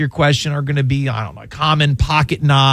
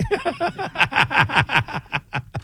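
high burst of laughter; 10 semitones higher, 6 dB quieter than usual. Real, not acted. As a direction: crack up at your own joke. Host laughs at own joke.

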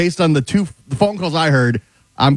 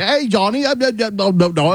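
caller voice; 8 semitones higher than usual. Retold or imitated. Imitating the caller's phone voice.

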